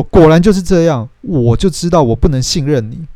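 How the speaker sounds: 更高更响地，气冲冲地说; 像终于抓到把柄一样爆发; 爆发的怒气. Retold or imitated. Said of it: "Kate大爆发". (凯特对尼克大发雷霆，转述时带点气)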